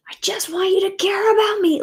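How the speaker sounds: a desperate demand to be cared for; angry yelling. Retold or imitated. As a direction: yell it from hurt and anger. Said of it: "yelling that in my anger".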